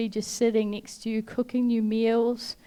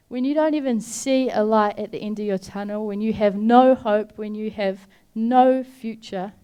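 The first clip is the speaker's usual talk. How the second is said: building louder preaching; 4 dB louder than usual. Real, not acted. Preacher lifting the hopeless, building louder. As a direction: build each line louder, stressing no.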